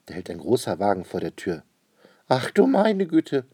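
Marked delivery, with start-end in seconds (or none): 2.3-3.5 high, loud, drawn-out exclamation; crying out. A narrator's reading. Lady sees the big car pull up, crying out. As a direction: call it out slowly in high alarm. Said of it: "ruft die Dame".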